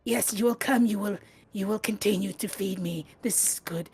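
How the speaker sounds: pompous creature lord, building in pitch; giant snail lord. Acted. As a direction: proclaim like a pampered god to worshippers. Game master voices giant snail lord.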